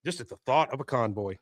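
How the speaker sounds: soft, hushed, pretending to be overcome; mock choked up. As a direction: feign getting emotional, dropping the volume. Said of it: "I'm getting so choked up".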